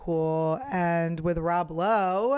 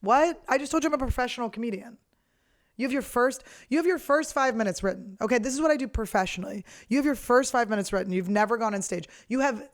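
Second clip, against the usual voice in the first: exasperated; 4 semitones higher than usual. Retold or imitated. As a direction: scold him in disbelief. Exasperated comeback to the guy.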